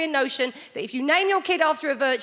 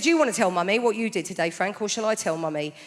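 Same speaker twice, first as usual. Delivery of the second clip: teacher voice; 3 semitones lower than usual. Retold or imitated. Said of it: "She said".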